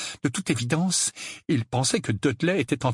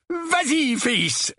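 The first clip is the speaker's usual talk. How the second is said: higher, more forceful prompting; furious urging; much slower than usual. A narrator's reading. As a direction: urge your son on, seething. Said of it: "répéta l'oncle Vernon, la moustache frémissante de fureur". (encouragement frémissant de fureur)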